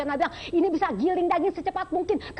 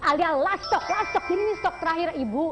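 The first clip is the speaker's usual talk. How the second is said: infomercial. Acted. TV shopping host sales pitch.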